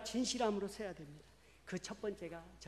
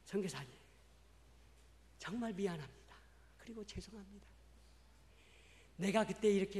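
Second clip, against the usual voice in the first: tearful apology; 2 semitones higher than usual. Retold or imitated. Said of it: "눈물을 왈칵 쏟아내시면서".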